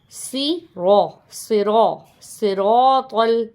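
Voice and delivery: صراط with heavy, rounded ra and ta; thick R. Shown as a demonstration. Teacher sounding out صراط for students with thick ra. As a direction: build صراط syllable by syllable, R full-mouthed. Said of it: "را کو بھی موٹا پڑھیں گے".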